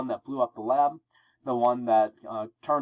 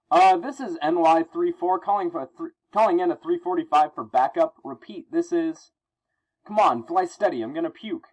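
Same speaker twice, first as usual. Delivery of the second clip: high, loud radio call for backup; panicked police pilot; 5 semitones higher, 4 dB louder than usual. Acted. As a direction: call it in urgently from a lurching helicopter.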